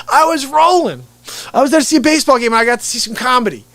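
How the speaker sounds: ordinary talk, nothing marked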